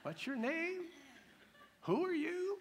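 a God who doesn't recognise you; mock puzzled God. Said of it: "you want God to go".

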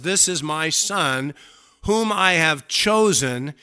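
"This is my Son, whom I have chosen" slow and weighty; weight on "Son" and "chosen", slowly; emphatic declaration. Acted. Father speaks for emphasis, "This is my Son, whom I have chosen" declared slowly. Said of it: "he said this for emphasis".

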